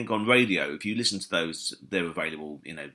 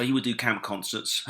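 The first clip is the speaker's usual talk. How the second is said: "camp" given knowing emphasis; stress on camp; 4 semitones higher than usual. Real, not acted. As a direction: lean on the word "camp". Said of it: "emphasis on the word camp".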